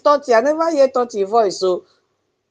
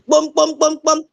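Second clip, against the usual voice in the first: chanted drum beat sounds; town crier drum call; 5 semitones higher than usual. Shown as a demonstration. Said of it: "We call it a town crier".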